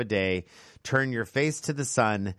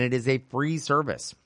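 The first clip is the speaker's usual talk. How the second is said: "free" picked out with emphasis; stress on free; 3 semitones higher than usual. Real, not acted. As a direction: lean on the word "free". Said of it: "I do emphasize the word free".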